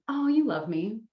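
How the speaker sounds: pleased, lifted 'you love me'; affectionate realization. Shown as a demonstration. Coach modelling a reply to a partner's kindness, pleased realization.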